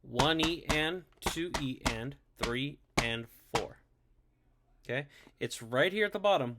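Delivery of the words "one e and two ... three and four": slow count. Shown as a demonstration. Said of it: "we're gonna go".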